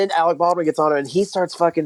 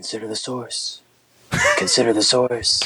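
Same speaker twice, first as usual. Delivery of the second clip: hushed, slow, drawn-out low whisper; 5 semitones lower than usual. Retelling how a man keeps repeating a phrase through long pauses, retelling a whisper. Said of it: "he's like whispering it".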